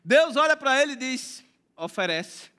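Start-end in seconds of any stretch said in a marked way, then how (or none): 1.8-2.5 low, soft, solemn command; God's command. Acted. God telling Abraham to offer the boy, low and hushed. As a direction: drop low and quiet as God speaking.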